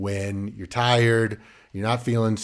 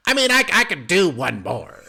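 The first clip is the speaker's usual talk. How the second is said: higher, giggling give-in; laughing; 7 semitones higher, 5 dB louder than usual. Retold or imitated. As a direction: laugh through the excuse. Giggling, caving to one more.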